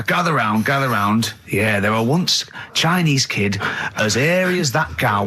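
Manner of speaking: lightly voiced old northern grandad; slow folksy old man telling a tale; old Yorkshire storyteller.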